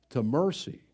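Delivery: ordinary delivery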